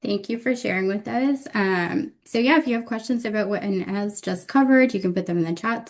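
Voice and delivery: hoarse, voice giving out; losing voice. Real, not acted. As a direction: speak through a worn-out hoarse voice. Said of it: "Sorry, I'm losing my voice".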